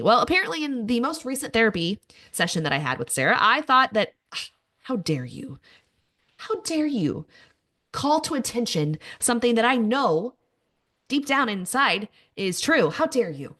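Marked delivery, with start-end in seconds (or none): 4.3-13.5 mock-indignant, hammed-up how dare you; sarcastic outrage. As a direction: play offended with a wink. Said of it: "I am being a little sarcastic".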